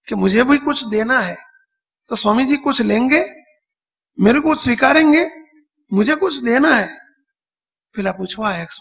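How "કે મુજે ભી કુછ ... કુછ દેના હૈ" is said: imitating an old woman's raised-pitch plea; higher, insistent asking in the old woman's role; entreating old woman. Old woman asks whether Swami will accept her gift, entreating. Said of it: "એક શબ્દ કહ્યો".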